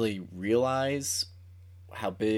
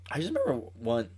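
voice crack; faster than usual. Real, not acted. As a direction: voice cracks on "remember". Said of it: "voice crack, sorry".

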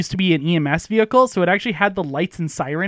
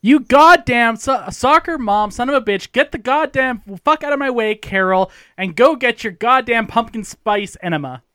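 retold angry yell; 5 semitones higher than usual. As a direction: imitate a hungry friend's road rage, easing off. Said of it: "And he yells at her".

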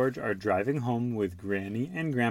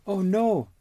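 mock dismay; 10 semitones higher, 4 dB louder than usual. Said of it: "George cries".

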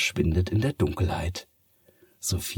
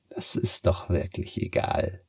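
purring. A narrator's reading. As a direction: purr it, unbothered. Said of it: "schnurrt die Katze". (schnurrend, gehaucht)

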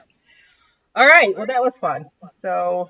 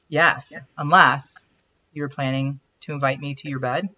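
put-on weird French accent; 6 semitones lower than usual. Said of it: "the weird French accent".

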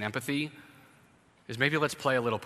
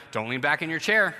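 firm warning, louder; parent scolding; 3 semitones higher, 4 dB louder than usual. Retold or imitated. Parent warning a rocking child at dinner, scolding louder. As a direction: tell the kid off, raising your voice.

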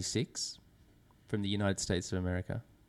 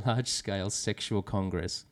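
laughing. Real, not acted. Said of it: "Sorry, I shouldn't have laughed".

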